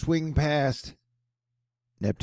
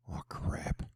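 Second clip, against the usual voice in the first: a whispered oh crap; 13 dB quieter than usual. Real, not acted. Reacting to dramatic footage, whispered. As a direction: breathe it under your breath.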